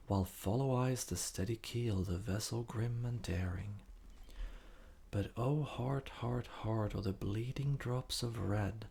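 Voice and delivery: projected verse, leaning into each opening; earnest recital, lifted at each stanza's start; poetry recitation. Acted. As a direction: declaim the poem with measured rhythm. Recites a Whitman poem.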